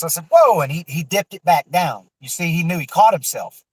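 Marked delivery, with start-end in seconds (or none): 0.3-0.6 high, loud warning yell; retold sharp warning shout. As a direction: stop him cold with a loud whoa. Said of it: "I got on his ass".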